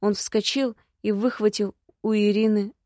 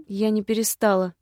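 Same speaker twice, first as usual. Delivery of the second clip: plain reading voice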